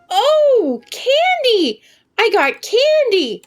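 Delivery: high, loud, laughing joy over candy; delighted squeal. Real, not acted. Streamer finds candy in the game, squealing with laughing delight. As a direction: squeal with glee at the prize.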